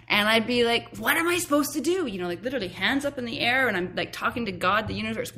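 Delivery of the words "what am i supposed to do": pleading. Retold or imitated. Crying out to God.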